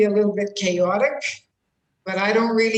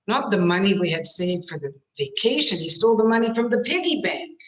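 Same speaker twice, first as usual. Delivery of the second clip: insistent clarification; 3 dB louder, faster than usual. Shown as a demonstration. Acts explanation of which money.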